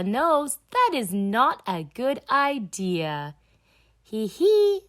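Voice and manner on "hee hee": high playful giggle; a happy little piglet giggle; giggling. Acted. Children giggling in story.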